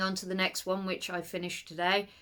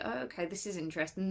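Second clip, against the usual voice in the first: mild curiosity; 8 dB quieter, much faster than usual. Retold or imitated. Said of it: "I was like".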